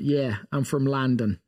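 put-on a light, rougher modern London Cockney accent; quick sketch of a London Cockney voice. Co-host demonstrates the modern London Cockney accent. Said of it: "a little bit more like".

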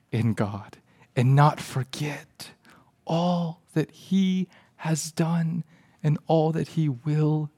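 slow, weighted scripture delivery; earnest preaching. Real, not acted. Pastor quotes a psalm to the church, slow earnest preaching. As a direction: stretch the key words and let them settle.

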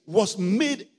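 loud, high and drawn out; slow shouted emphasis. Acted. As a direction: hammer the verse home slowly. Repeated shouted verse.

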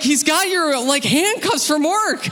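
high, slow disbelieving mom; mom telling dad. Retold or imitated. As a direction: spell out the shock. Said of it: "my mom's like".

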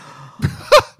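sharp, loud intake of breath; shocked gasp. Real, not acted. Reacting to weight remark made to friend, shocked gasp. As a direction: gasp at a gaffe.

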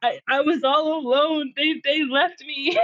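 lightly acted sob of an abandoned kid; crying plea. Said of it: "I just remember crying and being like".

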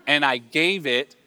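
slow, suspenseful tease; teasing dog owner. Acted. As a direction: stretch it out to keep the dog waiting. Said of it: "then the owner goes".

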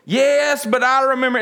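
rambling grandma. Retold or imitated.

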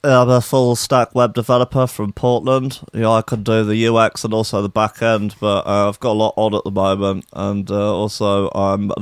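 lightly voiced techie type; web developer character. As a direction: put on a mild web developer persona. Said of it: "he looks like".

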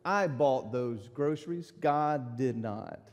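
loud mocking taunt, slowing at the end; a hint of a gloating atheist; gloating neighbor. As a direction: rub it in, mocking. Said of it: "and said".

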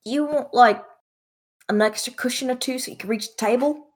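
put-on accented server offering help; sea elf server. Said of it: "looks at Nico and she goes".

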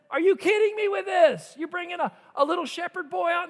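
loud, high, disbelieving sneer; mock the little shepherd boy; scornful giant. Giant mocks David.

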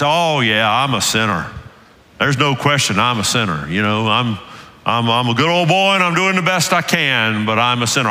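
a hint of a Southern good old boy, easygoing. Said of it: "I always kind of go into the old Southern good old boy voice".

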